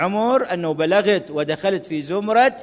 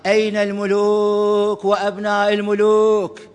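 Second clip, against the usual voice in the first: mock shout; 3 semitones higher, slower than usual. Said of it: "يصيح بصوت عالي".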